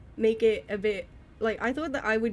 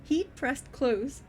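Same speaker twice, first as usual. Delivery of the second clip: careful reading; 3 dB quieter, slower than usual. Shown as a demonstration. Reads test passage slowly.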